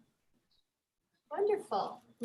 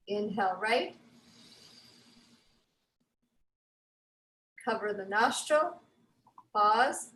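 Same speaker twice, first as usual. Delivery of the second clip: calm, slightly lowered instructor voice with long pauses; guided breathing; 2 semitones lower, 4 dB quieter than usual. Real, not acted. Yoga teacher leading the class through breath pauses, calm guidance. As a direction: sparse breath cues, settling softly at phrase ends. Leads slow breathing practice.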